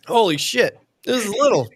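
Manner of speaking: strained gasp after coughing; just swallowed a bug. Real, not acted. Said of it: "a fly flew in my fucking mouth".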